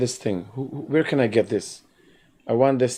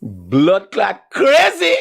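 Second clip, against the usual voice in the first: mock crazy shout; 7 semitones higher, 5 dB louder, much slower than usual. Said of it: "I'm mad".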